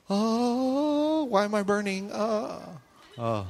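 high, squeaky panicked cry of a tiny ant; burning ant. Retold or imitated. Preacher voicing a burning ant for the congregation, high panicked squeak. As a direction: play the ant yelping as it burns. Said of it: "he's just doing his thing like".

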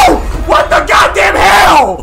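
loud, shocked yell at the intruder; startled shout. Real, not acted. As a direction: scream it out in real fright. Startled by a character in bathroom.

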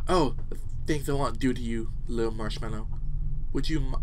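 a hint of intimate murmured longing; lewd game character. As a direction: read it as a mildly sultry confession. Resumes reading suggestive game text.

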